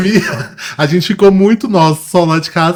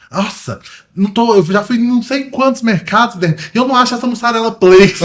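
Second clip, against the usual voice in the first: higher, exasperated grumble, half-joking; mock angry dad; 6 semitones higher than usual. Father fed up after searching markets, mildly mock angry. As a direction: play the fed-up father lightly. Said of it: "E ele bravo".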